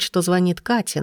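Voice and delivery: ordinary delivery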